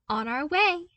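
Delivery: put-on upbeat young voice, proud of his find; eager young man. A narrator's reading. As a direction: pitch it up like an excited young engineer. Luke's voice again.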